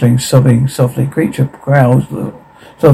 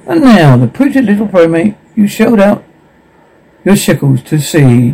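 announcer; 5 semitones higher than usual. Acted.

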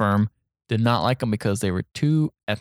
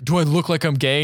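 slightly raised, mildly indignant retort; retold offended question; 3 semitones higher than usual. Student answering the pickup, mildly offended retelling. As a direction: ask it with mock offense, fairly contained.

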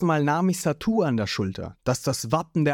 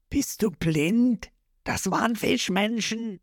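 Lysop urgent; 7 semitones higher, slower than usual. A narrator's reading.

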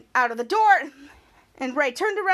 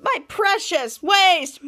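mock mourning; 3 semitones higher, 4 dB louder, much slower than usual. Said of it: "he said".

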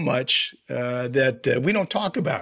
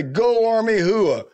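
barked hooah; 7 semitones higher, 3 dB louder, slower than usual. Shown as a demonstration. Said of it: "you gotta say".

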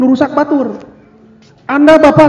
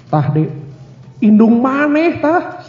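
grumbling father; 2 semitones lower, 3 dB quieter, slower than usual. Retold or imitated. Father grumbling to his kid about the wife. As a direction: let the father mutter a sly complaint.

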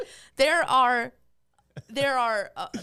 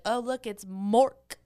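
slow mock announcement, drawn-out "Mork"; teasing; slower than usual. Pizza staff razzing dad every visit, slow teasing. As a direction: tease with a stretched-out name. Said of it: "they'd be like".

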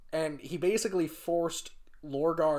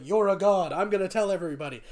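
louder, higher and fast, bursting to spread the word; eager zealot gushing; 6 semitones higher, 7 dB louder, faster than usual. Retold or imitated. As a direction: blurt it like an overexcited fan. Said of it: "he just kept being like".

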